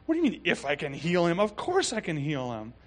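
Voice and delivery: mildly indignant retort; a little worked up. Retold or imitated. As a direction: retell it with a touch of exasperation. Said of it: "getting a little worked up".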